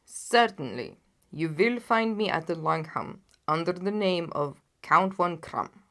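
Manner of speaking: a proud monarch, loud and grave; booming royal client; loud, heavy king. Acted. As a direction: lay out the failures like a vexed king. The king gives his alias.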